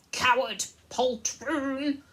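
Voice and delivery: high, loud, furious squeak; squeaky mouse shout. A narrator's reading. Brave mouse insulting his captors, high squeaky shout. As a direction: shriek insults like an outraged mouse. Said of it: "squeaked Reepicheep".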